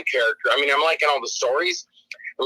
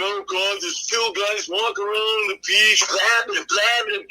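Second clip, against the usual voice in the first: mock bored whining; 3 semitones higher than usual. Mimicking bored viewers.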